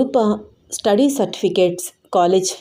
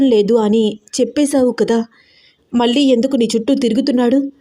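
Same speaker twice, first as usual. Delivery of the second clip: angry; 2 semitones higher than usual. Acted. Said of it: "కోపంగా మాట్లాడుతోంది దీప".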